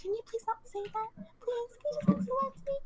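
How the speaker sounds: mock a streamer begging chat to stop; mocking whiny streamer. Mocking how streamers answer hate comments, a high whiny plea. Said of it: "the response is normally just like".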